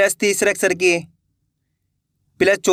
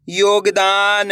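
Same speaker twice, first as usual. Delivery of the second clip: slow spelling; much slower than usual. Shown as a demonstration. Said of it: "अपन एक एक करके शब्दों को पढ़ेंगे".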